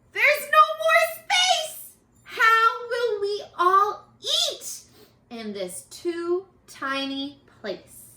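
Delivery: high panicky wail over the crowd; panicked. Acted. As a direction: wail it like a frantic grandma. Panicked character line.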